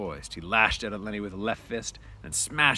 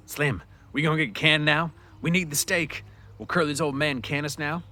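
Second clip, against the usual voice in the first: higher, louder worried questions; anxious; 7 semitones higher, 5 dB louder than usual. Acted. George fearing they get fired, anxious. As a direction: plead for reassurance.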